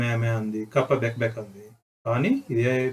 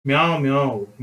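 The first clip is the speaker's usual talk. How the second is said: mother cat meow; 4 dB louder than usual. Retold or imitated. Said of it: "అని బోధించింది పెద్ద పిల్లి".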